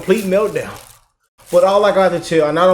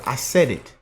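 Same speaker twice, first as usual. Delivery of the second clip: usual speaking voice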